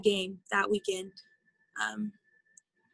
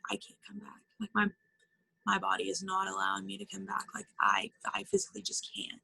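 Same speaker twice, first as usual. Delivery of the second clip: retold crying. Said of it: "I would start crying".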